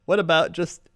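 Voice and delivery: light TV weather forecast; weatherman. Pretend. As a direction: deliver the forecast like local TV. Plays a weatherman.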